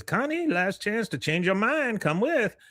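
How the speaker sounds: high-pitched playacted last offer; lightly acted call to join in; retold coaxing. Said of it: "and he says".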